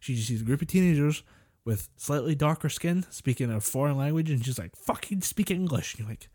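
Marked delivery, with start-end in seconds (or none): 4.8-5.9 slow, higher-pitched imitation of her screaming; retold angry scream. Retelling a woman berating Brazilian teenagers, mock angry scream. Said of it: "she starts screaming at them".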